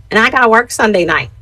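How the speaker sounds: lightly imitated friend; a hint of a friend's objecting voice; Crystal's talk. Friend objecting about Sunday night work, lightly imitated. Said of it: "That's how she talks".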